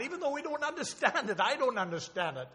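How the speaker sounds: choked up, holding back tears; emotional. Real, not acted. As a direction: voice catching with real emotion. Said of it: "Excuse me for getting emotional".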